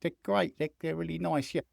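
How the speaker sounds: lightly voiced polite footballer fending off questions; soft, stammering mock interviewee; diplomatic young footballer. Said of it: "And so he's going".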